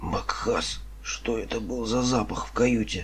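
strained, constricted voice. Narrator reads a character's line after he feels himself tense up; strained voice. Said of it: "Сдавленным голосом он произнес".

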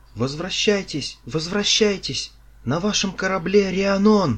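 shrill, very high, loud shout. Narrator voices a winged man circling over the galley, shouted. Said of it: "прокричал".

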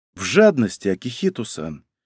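plain reading voice

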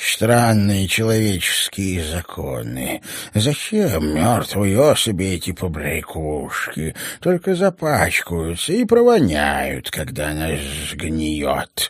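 hissing with deep annoyance, swooping pitch. Narrating, voice the snake-man answering the cyborg: hissing with extreme annoyance. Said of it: "с крайней досадой прошипел".

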